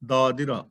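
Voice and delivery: ਦਾਦਿਰਾ with a light short i after ਦ, not ਦਾਦਰਾ; ਦਾਦਿਰਾ, neither ਦਾਦੀਰਾ nor ਦਾਦਰਾ; careful pronunciation. Shown as a demonstration. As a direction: say ਦਾਦਿਰਾ with a slight sihari on the second ਦ. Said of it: "ਦਾਦੀਰਾ ਵੀ ਨਾ ਹੋ ਜਾਏ ਤੇ ਦਾਦਰਾ ਵੀ ਨਾ ਹੋ ਜਾਏ".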